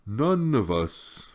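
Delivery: put-on slow, gurgling old turtle voice; old turtle gurgling to the boy. A narrator's reading. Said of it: "Morla gurgled".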